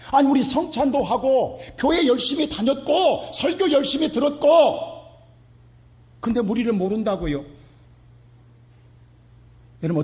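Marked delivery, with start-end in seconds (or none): 0.1-5.0 slow, higher indignant protest. Retold or imitated. Rejected believers protesting to Jesus. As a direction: plead your innocence, affronted. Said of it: "지금 이렇게 항변하는 거예요".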